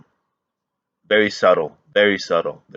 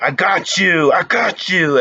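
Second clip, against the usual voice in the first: lightly mimicked gloating yell, higher and louder; imitating Penguin; 7 semitones higher, 5 dB louder than usual. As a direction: crow it like the villain, half in your own voice. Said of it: "that whole scene with Penguin".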